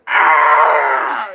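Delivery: very loud, long "ah"; mock yell. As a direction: bellow it out in imitation. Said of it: "He's like".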